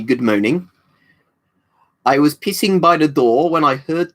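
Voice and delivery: put-on slow mangled French-accented English, vowels all wrong; Officer Crabtree voice. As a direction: Crabtree from Hello Hello, mispronouncing every line. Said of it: "Crabtree quotes".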